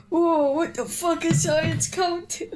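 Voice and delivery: giggling all the way through the words; laughing through a quote. Retold or imitated. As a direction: repeat the cat's line while cracking up. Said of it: "She's like".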